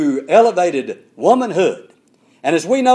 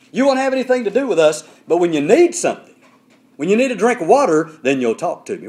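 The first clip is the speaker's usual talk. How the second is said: indignant. Retold or imitated. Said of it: "I believe she's very indignant".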